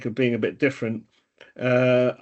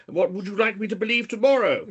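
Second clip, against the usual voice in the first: put-on Welsh accent; 9 semitones higher than usual. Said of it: "I did enjoy that Welsh accent there".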